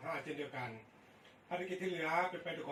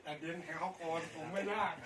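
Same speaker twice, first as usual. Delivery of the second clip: over walkie talkie; 5 semitones higher, much faster than usual. Real, not acted. Station speaking over radio.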